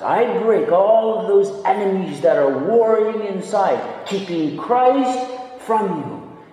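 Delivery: emphatic, rising pulpit declaration; forceful preaching. Acted. Preacher voicing God's promise to the congregation, forceful. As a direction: proclaim it with swelling force.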